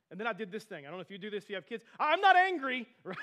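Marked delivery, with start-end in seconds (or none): 2.0-2.9 loud, high angry denial; clearly angry. Retold or imitated. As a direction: re-enact an angry shout while denying the anger. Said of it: "I was clearly angry".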